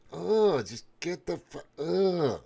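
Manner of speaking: real disgust, groaning at the screen. Real, not acted. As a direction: groan it out, fed up. Disgusted rant.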